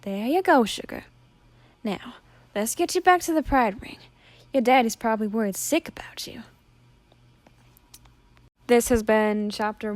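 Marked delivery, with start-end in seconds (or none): 0.0-6.4 gentle, ending in a hush; soothing. Acted. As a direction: Willie soothing a crying girl. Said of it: "Willie soothed".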